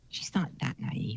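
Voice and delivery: low, slow whispered aside; breathy stage whisper, drawn out. Acted. Player says where the officers would talk, slow stage whisper. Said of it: "You're doing a stage whisper".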